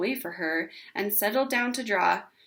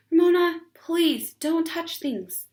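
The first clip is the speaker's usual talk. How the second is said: higher and louder call, then slow; exasperated scold; 7 semitones higher, 5 dB louder, slower than usual. A narrator's reading. Mother scolding Ramona in store, loud then slow. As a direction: drag out the warning wearily.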